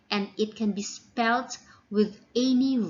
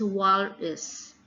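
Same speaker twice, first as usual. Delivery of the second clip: "walrus" as WAL-russ with a schwa ending; strong "wal", weak "uh" in "walrus"; stress on first syllable. Shown as a demonstration. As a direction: lean on the start of "walrus". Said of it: "The first syllable is stress".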